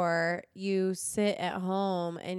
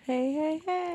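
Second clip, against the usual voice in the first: enthusiastic; 8 semitones higher than usual. Shown as a demonstration. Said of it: "I don't know if that was enough enthusiasm".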